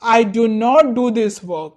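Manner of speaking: slow, stretched model sentence; slow example. Shown as a demonstration. Teacher slowly reads the example to students. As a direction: lay each word out for the class. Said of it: "example sentence".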